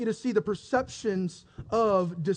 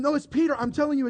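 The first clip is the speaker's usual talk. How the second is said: high, mildly urgent insistence; insistent affirming; 5 semitones higher, faster than usual. Acted. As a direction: insist to people who won't believe. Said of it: "she constantly affirmed".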